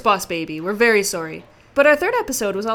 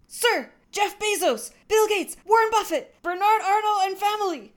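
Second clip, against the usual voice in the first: recruit shout; 7 semitones higher than usual. Acted. Recruit reciting to sergeant.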